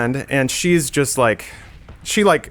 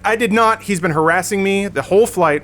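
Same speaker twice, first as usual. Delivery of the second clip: higher, defensive protest; mock indignant denial; 6 semitones higher than usual. Mocking the woman denying to the attendant, indignant. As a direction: imitate her insisting. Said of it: "flipping out".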